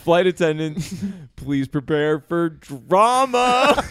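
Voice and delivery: laughing cabin announcement, slow at the end; light flight attendant voice, drama drawn out. Pretend. Mock in-flight announcement bit.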